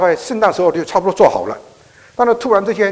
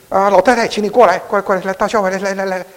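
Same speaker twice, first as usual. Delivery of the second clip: raised, eager call to come in; waving her in from the cold, voice raised; 6 semitones higher, 4 dB louder than usual. Retold or imitated. 牧师跑出去叫老太太. (大声招呼老太太进来)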